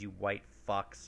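hushed, slow whispered insult; whispering. Real, not acted. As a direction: whisper it under breath.

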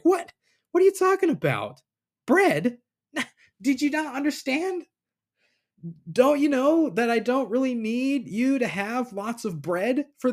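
a hammed-up teacher baffled by his students; exasperated Jesus. Jesus scolds disciples about forgetting bread, high and incredulous.

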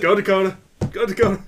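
cheering. Real, not acted. Cheering drinker on.

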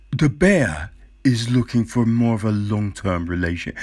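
lightly put-on nature-documentary narrator voice. Podcaster mocking the documentary's narrator, light narrator voice. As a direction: read it like a serious wildlife narrator.

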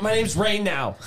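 mock schoolgirl. Schoolgirl announcing her new name to classmates, mock high voice. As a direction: put on a renamed girl announcing herself.

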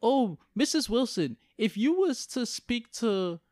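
lightly ape a polite white reporter; a hint of a prissy TV reporter. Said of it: "She asked the mom".

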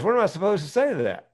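stunned driver. Retold or imitated.

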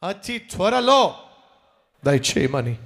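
earnest prayer of thanks over music; fervent prayer. Acted. Pastor leads the congregation in thankful prayer, fervent. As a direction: pray aloud with fervent thanksgiving.

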